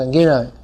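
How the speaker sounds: Giriyai slurred, without the dh; persisting mispronunciation. Retold or imitated. Teacher imitating someone ignoring correction, Giriyai run together. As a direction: drop the middle consonant in Giriyai. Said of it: "you still go".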